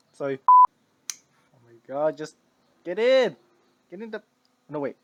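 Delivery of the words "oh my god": loud, slow, stretched exclamation; drawn-out oh my god. Real, not acted. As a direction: stretch it out in dismay.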